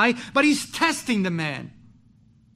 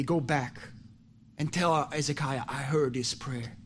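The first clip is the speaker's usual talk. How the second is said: voice of God; 6 semitones lower, 6 dB quieter than usual. Acted. God speaks to Isaiah.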